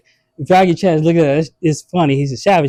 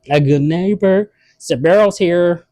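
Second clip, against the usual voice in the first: mock Mexican accent; 3 semitones higher, slower than usual. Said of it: "what if it was a Mexican".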